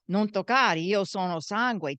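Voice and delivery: loud Italian street yell at the goons. Retold or imitated. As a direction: shout it at the thugs chasing you. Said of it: "we'd yell".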